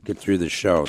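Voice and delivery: hoarse, strained, nearly gone voice; losing voice. Real, not acted. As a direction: talk through a voice that's almost gone. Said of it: "I'm gonna lose my voice".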